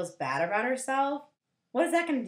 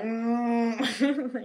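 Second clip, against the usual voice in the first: long closed-mouth "mmm" like a cow; playful cow noise; imitated cow moo. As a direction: moo through closed lips. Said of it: "like cows are".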